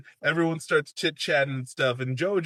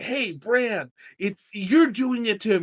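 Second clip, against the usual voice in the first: alarmed friends; 7 semitones higher, 4 dB louder than usual. Retold or imitated. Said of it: "they're like".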